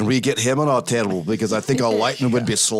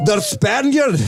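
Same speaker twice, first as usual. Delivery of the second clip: higher, grand and proud; the Spaniard; 4 dB louder, slower than usual. Acted. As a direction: announce the name with flourish. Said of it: "What did you say his name is".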